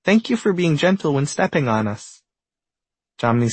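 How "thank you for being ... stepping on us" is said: chiming grass voice. A narrator's reading. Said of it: "Another tuft of grass chimes in".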